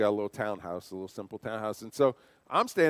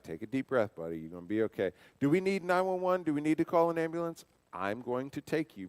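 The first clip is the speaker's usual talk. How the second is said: calm reassurance; 4 dB quieter than usual. Retold or imitated. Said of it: "the way that I'm talking to him".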